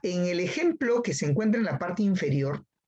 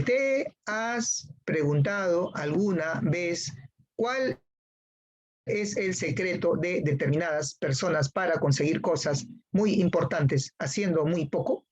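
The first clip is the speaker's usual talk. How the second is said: halting syllable reading. Shown as a demonstration. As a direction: read it like a struggling student, stumbling along. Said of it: "haces una lectura silabeada. Así como en este caso".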